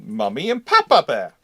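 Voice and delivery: usual speaking voice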